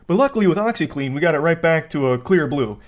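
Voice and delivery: hammed-up ad pitch, fast start; infomercial voice. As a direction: sell it like a cheesy TV ad. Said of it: "makes it sound like an old infomercial".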